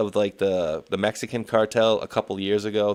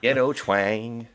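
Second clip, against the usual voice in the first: slow, drawn-out mock twang accent; mock Saint Louis twang, slowly; imitated ghetto twang; much slower than usual. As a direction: echo the ghetto twang, stretching it out. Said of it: "It's a ghetto twang accent".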